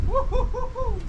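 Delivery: high playful whoop. Real, not acted. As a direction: cheer as you set off. Cheering while walking.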